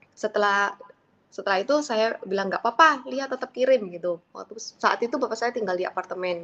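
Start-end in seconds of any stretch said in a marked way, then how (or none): 2.5-3.9 mildly firm retold reassurance; retold insistence. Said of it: "bersikeras untuk". (agak bersikeras, menirukan ucapan sendiri)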